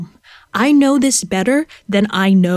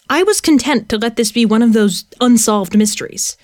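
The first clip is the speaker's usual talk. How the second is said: usual speaking voice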